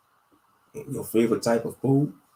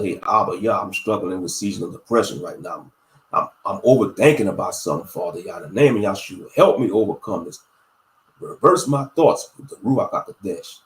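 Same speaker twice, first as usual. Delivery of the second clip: earnest prayer to the Father; spoken prayer; 3 semitones lower than usual. Shown as a demonstration. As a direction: pray it out plainly and earnestly. Prays aloud to the Father.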